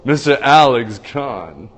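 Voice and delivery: slow, stretched announcer call of "Mister Alex Kahn"; announcer intro. Pretend. Host repeating the guest's name as a hammed-up announcer. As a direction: drag out "Alex" like a ring announcer, rising at the end. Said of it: "Mister Al-, did you like that?".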